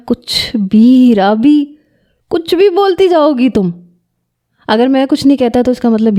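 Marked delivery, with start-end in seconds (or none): 0.1-3.7 mocking, dismissive, climbing higher at the end; sarcastic scoff. Husband scoffs at wife's accusation, sarcastic and higher. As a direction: brush her off with a sneer. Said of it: "وہ طنزیہ ہنسنے لگا".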